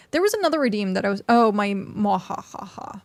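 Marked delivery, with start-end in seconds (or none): 1.7-3.0 slow mad scientist mwahahaha; evil laugh. Shown as a demonstration. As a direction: cackle like a cartoon villain. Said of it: "my evil laugh".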